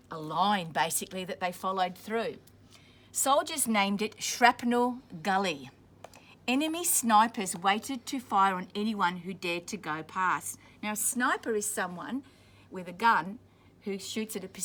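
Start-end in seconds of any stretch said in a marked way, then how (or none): 3.1-10.6 clear, steady storybook reading; reading to children. A narrator's reading. Teacher reading a war story to children, steady storybook voice. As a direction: read it out for the class. Reading picture book aloud to class.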